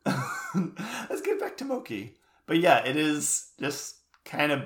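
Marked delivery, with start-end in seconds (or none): 0.1-2.1 laughing high echo. Acted. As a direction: giggle it back.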